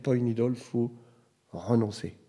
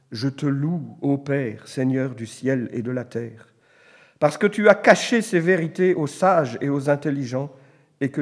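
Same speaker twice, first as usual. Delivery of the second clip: solemn reading of the Gospel; scripture reading; 4 dB louder than usual. Acted. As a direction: read the verse out with weight. Reads Bible passage aloud.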